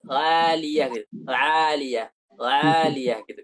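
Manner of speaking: aliyah with a ghain-like ain. Retold or imitated. Ustaz imitating a famous qari's odd ain. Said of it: "Kayak ada ghainnya gitu".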